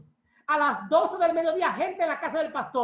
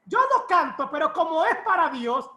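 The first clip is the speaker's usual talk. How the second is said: mock excuse; 4 dB louder than usual. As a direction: put on a hint of the eager non-singer. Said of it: "gente que dice". (imitación burlona leve)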